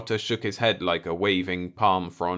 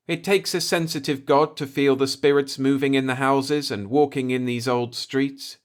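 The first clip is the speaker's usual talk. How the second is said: high, reverent voice of an alien elder; solemn old native; 6 semitones higher, 4 dB louder than usual. A narrator's reading. Old native tells the Earthman about the spirits, solemn.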